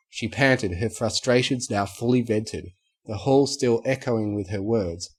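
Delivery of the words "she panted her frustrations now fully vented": ordinary delivery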